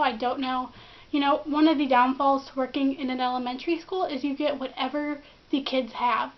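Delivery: husky man voice from a cold; sore throat voice. Real, not acted. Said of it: "excuse the man voice".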